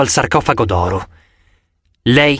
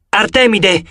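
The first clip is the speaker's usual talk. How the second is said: higher, urgent call; 6 semitones higher, slower than usual. A narrator's reading. Narrator calling out to Artemis, urgent. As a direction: call to the goddess across the rocks.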